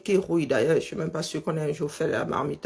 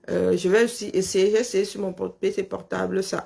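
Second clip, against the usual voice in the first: lisp. Real, not acted. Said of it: "Je recommence à zozoter".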